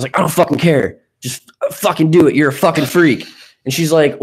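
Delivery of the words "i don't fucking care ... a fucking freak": retold impatience, pitched a bit higher; irritated. Man retelling his texts to a woman, irritated. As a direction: brush her off, mildly exasperated. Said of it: "I was really irritated".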